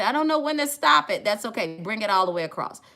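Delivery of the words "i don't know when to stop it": high, loud mock worried viewer; imitating a viewer. Viewer worrying about her brow, a mock fret. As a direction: squeal it like a flustered viewer. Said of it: "You might say".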